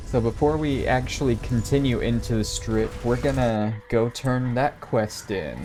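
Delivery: talking through light hiccups; a little hiccupy as you speak. Real, not acted. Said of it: "Got the hiccups just a little bit".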